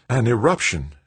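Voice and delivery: high-pitched voice of awe; awed. A narrator's reading. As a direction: marvel at the sight. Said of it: "his voice filled with awe".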